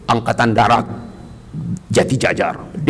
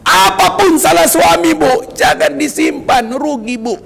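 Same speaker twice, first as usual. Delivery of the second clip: earnest plea; 14 semitones higher than usual. Real, not acted. Pleading to wives in sermon.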